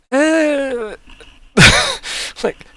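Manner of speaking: high, drawn-out noise of hesitation; non-committal. Acted. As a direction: dodge the question with a vague high hum. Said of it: "very non-committal response from Gamble there".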